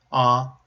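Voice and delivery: "Oliver" as O, li, ver with pauses; split into syllables. Shown as a demonstration. Teacher repeats the family name, "Oliver" in separated syllables. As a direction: separate each syllable of "Oliver", consonants starting the last two. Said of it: "the previous syllable ends with a vowel".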